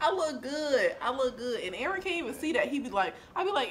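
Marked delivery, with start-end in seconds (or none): 0.0-0.9 laughing boast. Real, not acted. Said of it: "Like, I'm cute".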